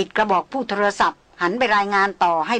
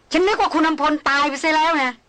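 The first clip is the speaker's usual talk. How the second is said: higher, pointed and annoyed; irritated emphasis; 6 semitones higher than usual. Acted. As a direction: lean on the words with irritation. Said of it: "หล่อนเน้นเสียงอย่างหงุดหงิด". (เน้นเสียงอย่างหงุดหงิด)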